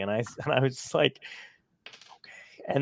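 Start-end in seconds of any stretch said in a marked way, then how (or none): 1.8-2.6 barely voiced, breathy resigned okay; near-whispered giving up; defeated okay. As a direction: deflate into a soft okay. Defeated reaction in retold story.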